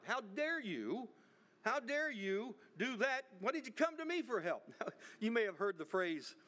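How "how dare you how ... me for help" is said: retold scolding. Governor bawling out the burgesses, mock outrage. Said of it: "and he's bawling them out".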